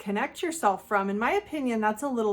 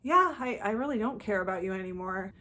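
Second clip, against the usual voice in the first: calm, unemotional. Shown as a demonstration. Ending talk with an ex by calmly agreeing. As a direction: agree coolly to shut it down. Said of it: "calmly, unemotionally say".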